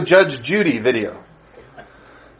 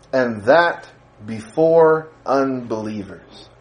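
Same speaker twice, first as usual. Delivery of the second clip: scripture reading. Acted. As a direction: read the passage to the congregation with weight. Reads the scripture passage aloud.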